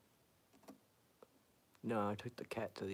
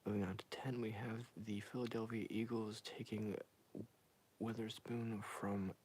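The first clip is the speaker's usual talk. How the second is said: ASMR whisper. Acted. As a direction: breathe each pick into the mic like an ASMR video. Whispered ASMR mock draft read.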